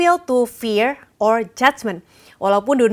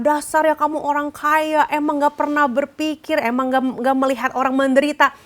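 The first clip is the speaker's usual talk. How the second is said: mildly voiced scolding, pitched higher without shouting; mock angry scolding; 4 semitones higher than usual. Preacher imitating what Nehemiah did not say to the rich, mock scolding. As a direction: act out a higher-pitched telling-off, not in earnest. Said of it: "Dia nggak marah".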